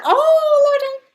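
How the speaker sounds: high, loud, astonished cry; amused shock. Real, not acted. Reacting to a funny comment.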